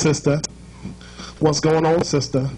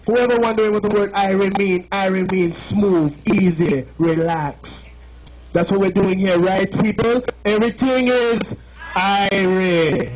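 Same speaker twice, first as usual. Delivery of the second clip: Jamaican accent. Shown as a demonstration. Explaining Irie to the crowd, light Jamaican accent. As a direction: lay back easy and Jamaican on Irie. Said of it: "Jamaican lesson".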